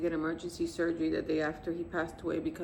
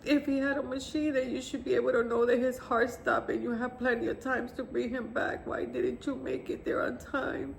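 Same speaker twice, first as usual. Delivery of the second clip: angry confrontation; 5 semitones higher than usual. Retold or imitated. Grieving mother confronting the nurse, angry and raised. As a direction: demand answers from the nurse, voice climbing.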